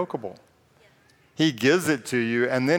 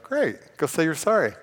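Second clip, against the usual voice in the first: chirpy, much higher voice of the Spirit, brisk; cheerful Holy Spirit; 4 semitones higher than usual. Retold or imitated. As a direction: perk up high like a bright, cheery coach. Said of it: "He's like".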